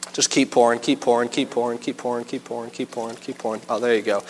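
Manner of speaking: low, fading repeated urging; fading coaxing. Real, not acted. Pastor coaching helper pouring baking soda, fading. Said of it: "coaching helper pouring".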